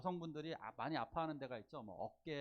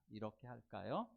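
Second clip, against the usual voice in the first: gentle suggestion; 4 semitones lower, 4 dB quieter than usual. Shown as a demonstration. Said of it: "이렇게 권유하는 거예요".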